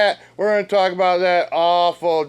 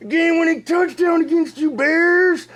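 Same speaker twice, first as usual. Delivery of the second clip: mock outraged shout; 11 semitones higher than usual. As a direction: shout it at the team like a betrayed fan. Ranting at the Bears.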